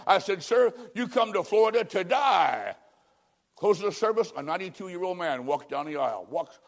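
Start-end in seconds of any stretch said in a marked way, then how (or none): 0.4-2.7 shout. Retold or imitated. Preacher quoting himself shouting.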